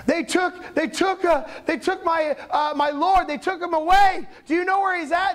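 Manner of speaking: distraught reply. Acted. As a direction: stumble over a worried plea. Acting out weeping Mary's reply.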